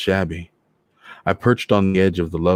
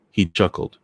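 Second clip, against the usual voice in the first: plain reading voice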